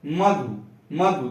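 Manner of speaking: मधु with weight on म; मधु, first syllable stressed; stress before उ. Shown as a demonstration. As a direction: press the म of मधु before the short धु. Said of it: "बल पड़ रहा है".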